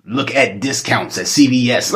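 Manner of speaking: hammed-up complaint to the dream; mock plea. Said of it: "But I'm like".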